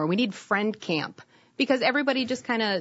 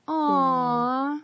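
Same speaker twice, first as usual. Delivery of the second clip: cooing aw; 5 semitones higher than usual. Retold or imitated. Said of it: "so everyone can go".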